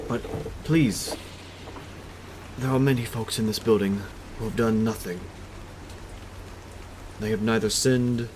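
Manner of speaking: earnest, halting plea in character; lightly voiced pleading captive. Captive begs captors to spare his people, mildly pleading. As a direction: plead in short phrases, pausing between them.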